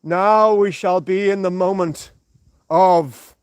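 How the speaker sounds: a failed first try at a solemn Jesus voice, slowed down; botched Jesus voice. Acted. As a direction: start the holy voice, then lose it. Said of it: "that's not bloody Jesus".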